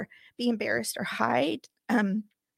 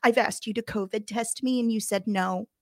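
mildly raised, heated retelling; retold anger. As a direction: replay losing patience with the doctor. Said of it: "Because then I got mad".

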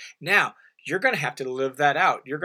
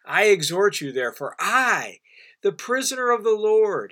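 weight on "I", a pause, then "the prisoner of the Lord" high and forceful; emphatic; 5 semitones higher, 4 dB louder than usual. Retold or imitated. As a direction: set "I" apart and drive "the prisoner of the Lord" home. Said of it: "He's, he's emphatic about this".

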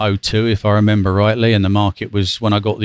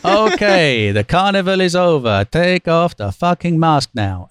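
mock shout; 6 semitones higher, slower than usual. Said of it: "at the top of his voice".

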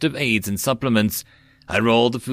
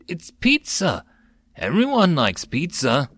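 distraught disbelief; 6 semitones higher than usual. Acted.

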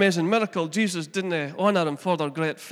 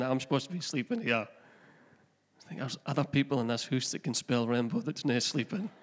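grumpy woken-up dad; 4 semitones lower, 7 dB quieter than usual. Retold or imitated. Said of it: "you're mad before you waking up".

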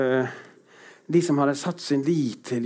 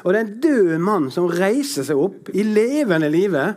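excited preaching; 6 semitones higher than usual. Real, not acted. Preacher excitement over miracle.

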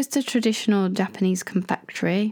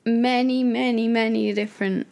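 sheepish surprise; 6 semitones higher than usual. Real, not acted. Realising she had eaten manju.

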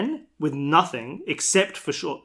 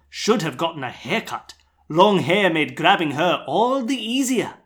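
put-on Australian accent; 2 semitones higher than usual. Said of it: "That's my Australian accent".

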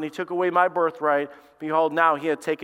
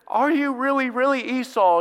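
put-on doubting old father; 8 semitones higher, 3 dB louder than usual. Blind father questions son.

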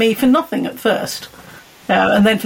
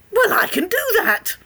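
confident reply; 11 semitones higher than usual. Retold or imitated. Guest retells her bold answer.

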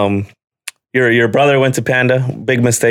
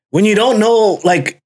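aggravated rant; 5 semitones higher than usual. Retold or imitated. Ranting to a friend about Chipotle customers, aggravated and high-pitched. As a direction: vent the annoyance, pitched up high. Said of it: "You're aggravated there".

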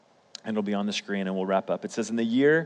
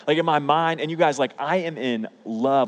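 excited; 4 semitones higher, 3 dB louder than usual. Real, not acted. Preacher telling youth he fell in love, excited. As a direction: burst out, then savour it.

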